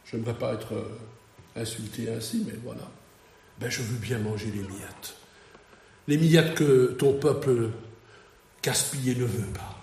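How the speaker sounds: understated, resigned acceptance; mostly low, softened acted reply; humble pleading. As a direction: gently voice a woman humbly accepting crumbs. Preacher voices the humble Canaanite woman.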